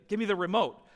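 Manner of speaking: firm acted demand from dad; insistent, no longer gentle; serious insistence. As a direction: repeat the request as if you mean it. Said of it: "No, seriously".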